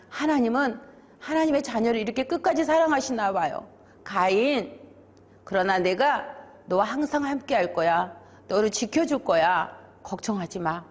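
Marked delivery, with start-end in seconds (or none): 4.0-10.8 gentle, settling reassurance, softening at the end; reassuring promise. Acted. God promising to protect Cain, calm reassuring voice. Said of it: "이렇게 약속해 주셨어요".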